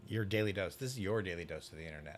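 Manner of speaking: monotone voice. Retold or imitated. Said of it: "He has that monotone voice".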